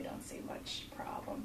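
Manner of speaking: whispered offhand aside; whispering. Real, not acted. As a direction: drop to a whisper.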